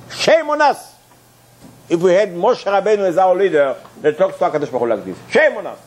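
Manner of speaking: high, exclaimed "Shame on us"; outraged cry. Acted. Preacher to congregation, outraged exclamation. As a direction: cry out in indignation.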